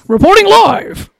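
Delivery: slow newsreader voice announcing live; announcer voice. Shown as a demonstration. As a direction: announce it like a TV reporter. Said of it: "I had to do my little announcer voice here".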